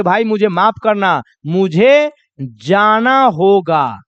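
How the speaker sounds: slow, apologetic leave-taking; sorry, friend, I have to go; polite apology. Shown as a demonstration. Teacher acting a guest leaving a party, slow and apologetic. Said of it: "वहां पर बोलेंगे".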